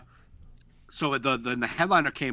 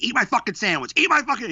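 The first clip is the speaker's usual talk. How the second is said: rising into a shrill comic yell, louder each time; mock yell; 10 semitones higher, 4 dB louder than usual. Comic yelling at a guy in the front row to eat the sandwich, a mock yell. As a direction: belt it out like the comic on stage. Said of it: "It's like".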